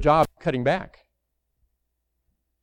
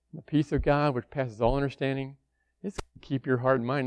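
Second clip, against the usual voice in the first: softer, calm and reassuring; gentle God; 4 dB quieter than usual. Retold or imitated. God gently reassures the anxious believer, softly. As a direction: soothe a worried child. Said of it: "God would come to us ever so gently".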